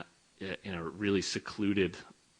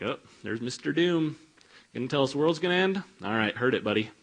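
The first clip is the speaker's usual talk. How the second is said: higher, louder, fast dismissive taunt; mocking townspeople; 5 semitones higher, 4 dB louder, faster than usual. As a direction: brush him off with a sneer. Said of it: "people would go".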